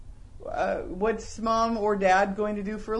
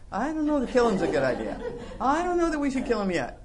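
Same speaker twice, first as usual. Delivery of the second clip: amused husband, half laughing; laughing through a quote; faster than usual. Retold or imitated. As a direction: laugh while talking her down. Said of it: "joke couple dialogue".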